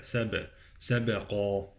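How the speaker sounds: slow "سب-، سبقا" with bouncing b; qalqalah on ba. Shown as a demonstration. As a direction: release the b of "سبقا" with an echo, heavy qaf. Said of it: "والقلقلة على الباء".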